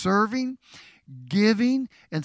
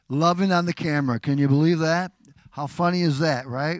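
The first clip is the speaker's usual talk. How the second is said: louder, fast and delighted; amused excitement; 6 dB louder than usual. Real, not acted. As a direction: bubble over with fun. Couple hugging for camera, amused.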